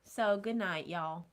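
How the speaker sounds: light Southern drawl; casual Southern goodbye; Southern accent. Pretend. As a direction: sign off with a touch of Southern. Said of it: "And you went Southern".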